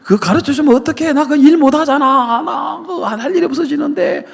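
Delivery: high, squealing devil begging, rising to a shout; devil pleading. Retold or imitated. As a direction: whine like a desperate devil begging him to stop. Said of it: "지금 마귀가 들으면서".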